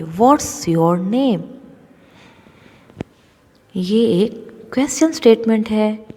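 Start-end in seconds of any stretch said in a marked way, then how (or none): 0.0-1.4 "What's your name?" slowly, with "What's" as one syllable; joined-up reading. Shown as a demonstration. Teacher reading the question for pupils, "What's" joined into one word. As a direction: model "What's your name?" slowly, the contraction run together. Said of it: "मिलाकर पढ़ेंगे".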